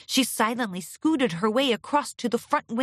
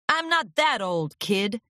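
coughing gruff agent. Acted. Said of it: "Furlong coughed again".

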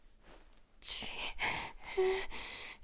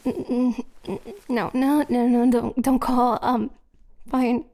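panicked; 3 dB louder than usual. Acted. Panicking as a call is threatened.

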